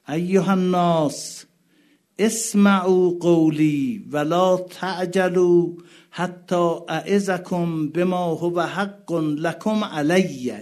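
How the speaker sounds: loud, very slow call to the crowd; crying out. Acted. Husayn calling out to the enemy army, loud and slow. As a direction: call out so the whole army hears.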